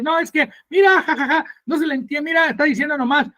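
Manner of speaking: high, mocking babble of a scoffer; mocking critic. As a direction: mimic a critic making fun of tongues. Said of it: "y se burla".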